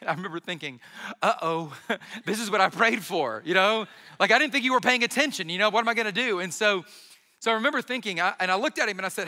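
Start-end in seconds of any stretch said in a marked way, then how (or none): 1.2-6.4 laughing mock panic. Retold panicked thought, laughing.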